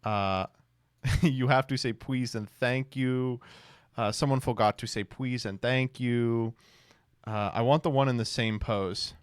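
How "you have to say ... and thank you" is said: "please" said as "pwease"; mock toddler W for the L in "please"; baby-talk please. Reading a meme mocking Vance, "please" babyishly as "pwease".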